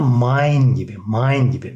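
"mine" said MAYN. Shown as a demonstration. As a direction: model "mine" with an ay glide. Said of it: "Ay şeklinde okunuyor".

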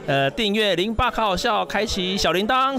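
slow, even announcer-style plug; promo sign-off. Acted. Comedian plugs his channels to viewers, slow promo read.

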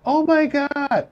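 high, drawn-out imitation of wife's alarm; mock shocked gasp. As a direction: stretch it out slowly like she's seen a ghost. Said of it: "My wife goes".

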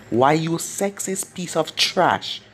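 slow, understated angry snap; mild snap. Acted. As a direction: bite off the insult slowly. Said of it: "snapped Sakura".

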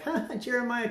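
mocking crowd jeering at Jeremiah. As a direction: taunt the prophet. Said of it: "they're like".

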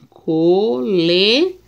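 "Coleção" said slowly, syllable by syllable; "Coleção" spaced into syllables; slow syllable reading. Shown as a demonstration. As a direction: spell out "Coleção" in slow beats. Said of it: "vamos ver a separação".

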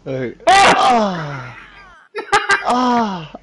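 high yelp mid-laugh; laughing scream. Real, not acted. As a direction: shriek while losing it. Hysterical reaction to the kill.

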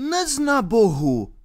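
high, pleading cry; pilgrim's outcry. A narrator's reading. Pilgrim protesting to the baron, high cry. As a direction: call out in pious protest. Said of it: "zvolal poutník".

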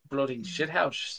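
slow, quiet, laughing mock Aussie; failed Australian impression. Host repeats the Aussie slang, slowly and softly through laughter. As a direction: try the Aussie phrase and land on Scottish. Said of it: "I sound Scottish".

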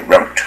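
"route" said to rhyme with "out"; minority American "route". Shown as a demonstration. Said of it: "有些少数的美国念".

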